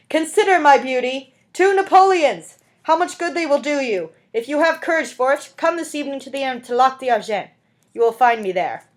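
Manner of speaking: high, loud huckster's cry; shrill calling out. Acted. Dentist calls after the fleeing Fantine, high and loud. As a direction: call after her, coaxing and brash. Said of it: "the shrill voice of the man who called".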